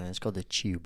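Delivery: soft, low London accent on "Tube"; London pronunciation. Shown as a demonstration. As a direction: say "Tube" as "chube", London style. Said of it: "'cause if you're in London".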